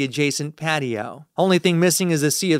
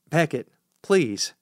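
calm plea; slower than usual. Acted. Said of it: "the most calm tone of voice I can muster".

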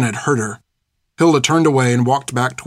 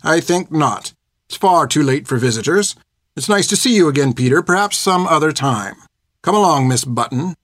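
prim, clipped refusal; politely cold schoolmistress; stern nun voice; 3 semitones higher than usual. Acted. Hilda sends Peter away.

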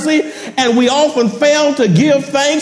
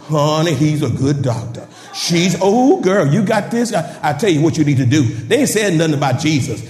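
a hint of a chatty church lady, fast; lightly voiced friend pushing her doctor; gossiping church lady; 3 semitones lower than usual. Friend urging a friend toward her doctor, lightly gossipy. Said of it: "many of us give more credit to the doctor".

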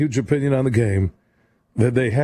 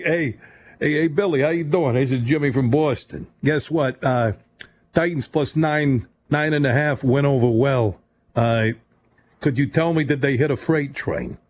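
light, slightly raised New York caller voice; mock New York accent. Radio host mimicking a Boston caller, in a light New York accent. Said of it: "That sounded like a New Yorker, not a Boston guy".

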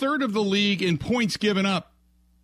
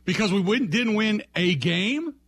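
mocking disbelief; incredulous. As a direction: repeat it like you can't believe it. Host mocking the coach's words.

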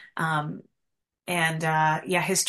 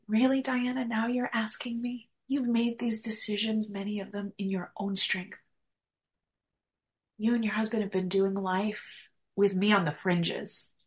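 gentle voice of God; 3 semitones higher than usual. Retold or imitated. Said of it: "put me in my place type of voice at all".

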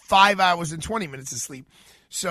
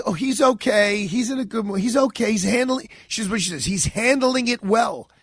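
quoting Diana; 5 semitones higher, 4 dB louder than usual. Retold or imitated. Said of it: "this is what she says".

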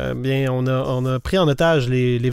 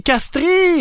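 eurêka; 13 semitones higher, 3 dB louder than usual. Real, not acted. Trouvent enfin la réponse.

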